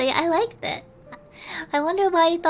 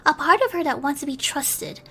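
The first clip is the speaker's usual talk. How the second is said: gentle storybook reading with hushed moments; bedtime story narration. A narrator's reading. Streamer reading a bedtime story to her chat, gentle narration. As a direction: read it like tucking listeners in, dropping to a hush now and then.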